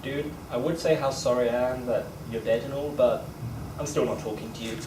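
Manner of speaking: ghostly mate. Retold or imitated. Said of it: "something a bit like this".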